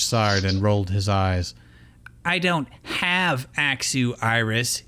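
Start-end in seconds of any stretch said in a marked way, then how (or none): 2.2-4.8 irritated. Acted. Ash brushing off Iris, slow and irritated. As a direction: sigh the words out, annoyed. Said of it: "he said irritably".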